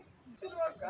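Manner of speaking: soft, understated tearfulness; only a hint of tears, softly; light crying. Shown as a demonstration. Director showing a lighter take, gently tearful. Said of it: "light ಆಗಿ".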